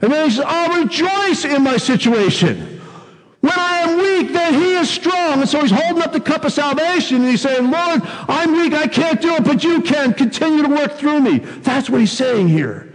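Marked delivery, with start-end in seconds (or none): 0.5-11.4 fervent prayer. Acted. Voicing Paul praying in weakness.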